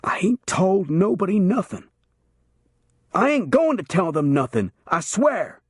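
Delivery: high, cracking frightened plea; terrified man's voice breaking. A narrator's reading. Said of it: "Bigelow's voice broke".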